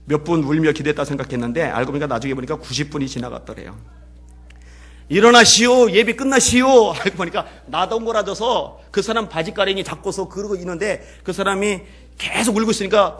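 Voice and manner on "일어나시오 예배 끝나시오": loud, high call to get up. Retold or imitated. Leper rousing the weeping professor after the service, calling loudly. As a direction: call out firmly so he hears.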